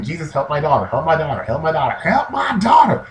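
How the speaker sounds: insistent plea jumping high at the end; mock screaming plea. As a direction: imitate a desperate mother, building to a high cry. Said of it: "she's just still screaming".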